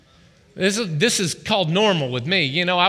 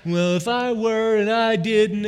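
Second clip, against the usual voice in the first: grumbling self-talk; 3 semitones higher, slower than usual. Retold or imitated. Complaining to the washing machine.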